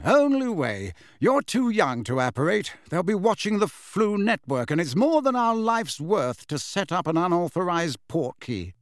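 a hint of a patient teacher; lightly voiced mentor. Lupin explaining the travel plan, lightly voiced mentor.

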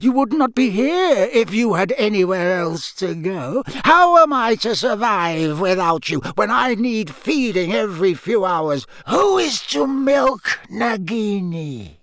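high, loud, icy tirade; furious master. A narrator's reading. Master berates his cowering servant.

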